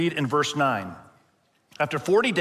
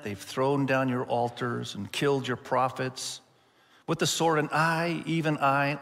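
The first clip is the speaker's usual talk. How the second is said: resigned second answer. Retold or imitated. Prophet repeating his complaint, now weary and subdued. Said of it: "I can only imagine he said it differently".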